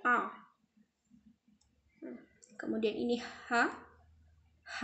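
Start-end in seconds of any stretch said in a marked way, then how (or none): 0.1-0.2 throaty ain A; ain sound. Shown as a demonstration. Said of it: "Tapi kalau ain dibaca A". 4.6-4.8 H said thick and heavy from the throat; thick throaty H. Shown as a demonstration. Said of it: "Tebal ya".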